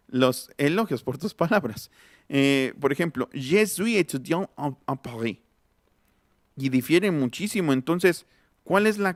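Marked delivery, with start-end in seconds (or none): 3.3-5.4 example read in French; French with silent final consonants; French pronunciation. Shown as a demonstration. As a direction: switch into French for the quote. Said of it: "en el francés".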